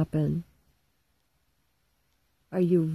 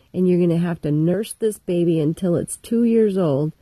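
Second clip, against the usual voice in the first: God furiously sentencing Eve; angry God; 4 dB louder than usual. Retold or imitated.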